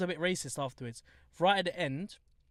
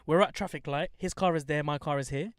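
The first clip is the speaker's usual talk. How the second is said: normal talking voice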